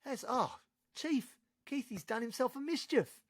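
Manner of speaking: high, mock-casual cop reporting in; high cop voice shrugging off a stabbing. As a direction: play a bored officer calling it in.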